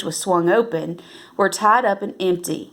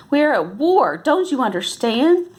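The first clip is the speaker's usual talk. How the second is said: angry; 5 semitones higher than usual. A narrator's reading. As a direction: demand it angrily of the boy. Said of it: "she said angrily".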